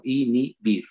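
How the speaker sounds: inhibir split as i, nhi, bir; silabeo. Shown as a demonstration. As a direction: sound out inhibir syllable by syllable. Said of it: "cómo tengo que silabear? Simplemente así". (inhibir separado en sílabas)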